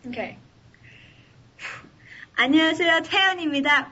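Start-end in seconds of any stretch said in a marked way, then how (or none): 2.4-3.9 fast, cute idol greeting; impression of a singer. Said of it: "rehash that line for me".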